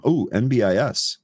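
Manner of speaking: ordinary talk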